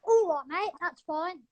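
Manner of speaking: lightly put-on English accent; casual matey English accent, as an impression; the speaker's English accent. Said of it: "I'm good at an English accent".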